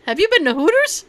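lightly imitated southern cop, pitched high. Cop handing back the license, mock southern accent. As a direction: retell it with a hint of southern accent. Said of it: "In his southern accent".

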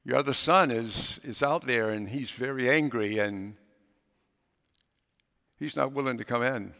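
quiet confidential aside to the master; whispered report. A narrator's reading. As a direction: murmur it close to the father's ear. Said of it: "whispers in his father's ear".

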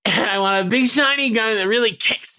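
lightly voiced greedy kid; eager boy Peter. Boy listing Christmas wishes to his nanny, eager kid voice. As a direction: rattle off a wish list like a kid.

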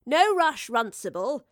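high, loud friendly call; calling back. A narrator's reading. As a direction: call back to someone in the next room. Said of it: "the Professor called back".

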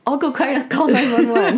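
panicked yelp. Retold or imitated. Acted panic over bleeding person.

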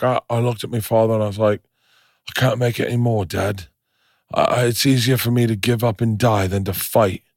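put-on amateur Irish-Scottish storyteller accent. Grown man recalls his father on the raft, Irish-Scottish accent. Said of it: "Irish, Scottish".

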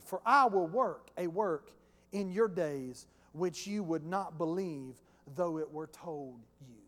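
slow, measured scripture voice; the Lord's reply. Acted. Preacher reading the Lord's answer to Habakkuk, solemn.

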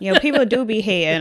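giggling through the words; laughing. Real, not acted. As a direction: laugh while you say it. Laughing echo of the quip.

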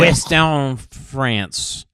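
put-on very slow, drawn-out French accent; hammed-up French accent; mock French accent. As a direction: stretch out western France like a snob. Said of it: "we cannot place his accent".

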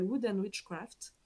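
English name in a French accent. Real, not acted. Host naming a shop, French-accented English. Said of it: "avec mon bel accent anglais".

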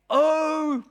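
high, emphatic, drawn-out cry. Shown as a demonstration. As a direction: raise your voice to proclaim it from the pulpit. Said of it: "I'm gonna raise my voice now".

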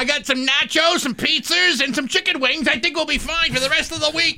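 mock Boston accent, high; Boston bro. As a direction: play along as a Massachusetts party guy. Boston bro bit continues.

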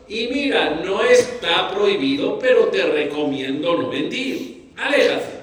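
easygoing, lighter reading; Aléjate rising lightly at the end; casual, light advice. Shown as a demonstration. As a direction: say it like a friendly tip. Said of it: "O para aminorar la situación".

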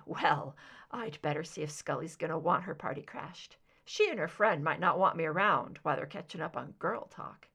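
lightly voiced son, cautious suggestion.

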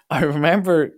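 usual speaking voice

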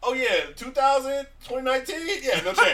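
high excited gush. Real, not acted. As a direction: rave about her, voice up high. Excited about Angela Bassett.

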